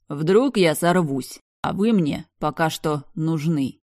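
lightly voiced dangerous man, slow; slow menacing male voice. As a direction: hold back a lethal temper, slowly. Black warns her menacingly.

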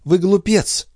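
a high, dismissive jab; dry remark. A narrator's reading. Wife mocking her pious husband, dismissively. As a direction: brush off his piety with scorn. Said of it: "заметила Николь".

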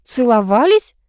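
stunned question, rising high; taken aback. A narrator's reading. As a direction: echo it in disbelief. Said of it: "опешила я".

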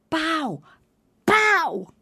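a desperate stage prompt. Acted. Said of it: "came the voice again".

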